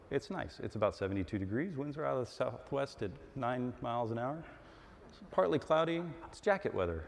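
lightly voiced pilot's weather report; airline pilot announcement. Shown as a demonstration. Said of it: "I do this in the airplane, can you tell?".

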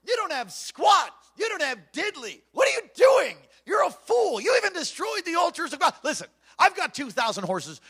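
high, loud taunting yell at a weak king; mocking shout. The Assyrian commander shouts insults at Hezekiah, mocking yell. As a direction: bellow the insults like a bully. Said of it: "See, he's like".

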